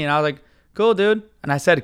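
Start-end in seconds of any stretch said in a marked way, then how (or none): 0.7-1.2 higher, mildly snide brush-off; kind of dickish. Retold or imitated. Passenger answering the driver's company story, mildly dickish. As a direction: brush him off with a slightly dickish lift. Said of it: "kind of dickish".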